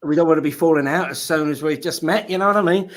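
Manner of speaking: light London Cockney twang; a hint of Cockney geezer; Cockney accent. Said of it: "I've gotta stop talking in that Cockney accent".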